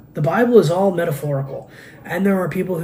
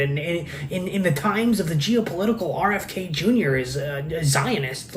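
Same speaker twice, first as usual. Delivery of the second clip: mocking commenters; 3 semitones higher than usual. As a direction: needle him like a pestering online commenter. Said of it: "there are these people in there going like".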